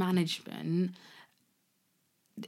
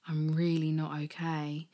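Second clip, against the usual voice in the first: whispered through starting tears; barely voiced, choked up admission; tearful whisper.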